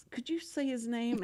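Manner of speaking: whispered aside; hushed on-air aside. Real, not acted. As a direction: lean in and whisper the question.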